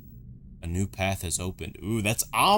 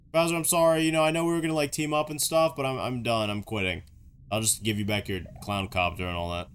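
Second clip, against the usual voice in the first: mock resignation speech. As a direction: act out awkwardly quitting on your boss. Acts Luigi quitting on Bowser.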